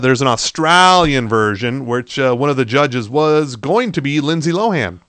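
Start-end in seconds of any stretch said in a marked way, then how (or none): 0.0-1.8 slow, badly faked Australian accent; terrible Australian accent. Host mocking Australian news, slow bad Australian accent. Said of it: "That's a terrible Australian accent".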